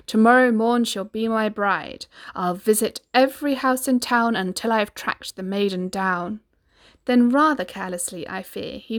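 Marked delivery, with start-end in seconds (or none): 0.1-6.4 proclaiming. Acted. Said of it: "he cried".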